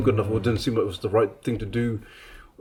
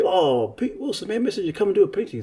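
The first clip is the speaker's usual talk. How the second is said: enthusiastic greeting; 10 semitones higher, 5 dB louder than usual. Retold or imitated. Organisers hail the guest painter, retold with mild enthusiasm. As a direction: hail him like a star guest, lightly acted. Retells being hailed as the painter.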